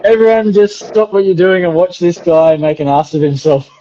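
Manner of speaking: teasing imitation, amused by it; imitating the teacher. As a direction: lightly mimic a teacher singling someone out. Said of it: "he's like".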